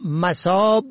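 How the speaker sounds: مصاب with "a" after the م, "masob"; first vowel fatha. Shown as a demonstration. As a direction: say مصاب as ma-SOB. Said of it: "از رهگذر تلفظ و معنا".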